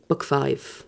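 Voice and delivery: whispering. Real, not acted. Secretive aside about the next book.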